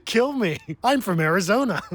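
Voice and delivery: put-on high, dopey girl caricature; Bella. Clumsy girl agreeing to anything, comically dopey. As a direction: play her dim and eager, way up high. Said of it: "And she's like".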